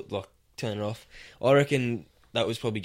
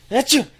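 loud, high fake sneeze in an Asian accent; explosive acted sneeze, Asian accent; mock Asian-accent sneeze; 14 semitones higher, 8 dB louder than usual. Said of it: "I'll do an Asian sneeze".

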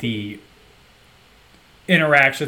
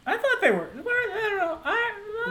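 laughing; 4 dB quieter than usual. Real, not acted. Laughing mid-sentence over joke.

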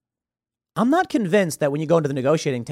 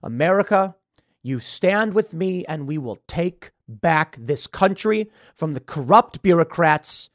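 powerful voice; 3 semitones higher, 4 dB louder than usual. Retold or imitated. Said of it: "the powerful voice saying".

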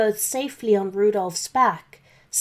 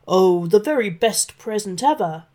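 lying with a smile; 4 dB louder than usual. Acted. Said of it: "lied Santa, trying to smile".

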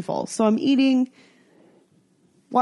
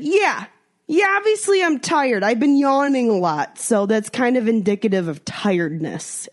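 sarcastic reply; 3 semitones higher than usual. Retold or imitated. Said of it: "And I said".

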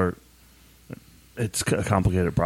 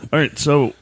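ordinary talk

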